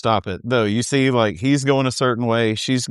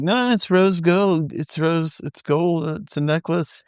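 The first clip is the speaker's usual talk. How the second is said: higher, slow earnest insisting; mock insisting boyfriend; 5 semitones higher, slower than usual. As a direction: play the clueless eager boyfriend. Imitating Schwartz insisting.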